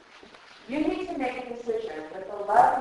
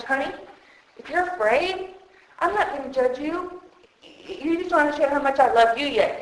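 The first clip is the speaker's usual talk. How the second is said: gentle voice of God. Acted. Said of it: "That's how he talks to us".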